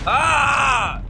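long falling "aah"; frustrated yell. Real, not acted. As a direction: yell out your exasperation. Frustrated yell while playing game.

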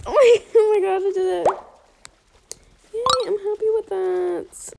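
loud giddy laugh into relief; delighted laughing cheer; laughing with joy. Real, not acted. Trade succeeded.

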